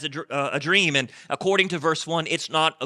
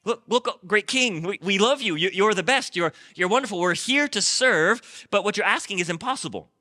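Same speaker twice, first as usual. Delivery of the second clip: higher, hurried pleading of frightened courtiers; panicked pleading; 5 semitones higher than usual. Retold or imitated. Wise men pleading with the furious king, mock panicked. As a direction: grovel and beg, voice pushed up in panic. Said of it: "they start to panic".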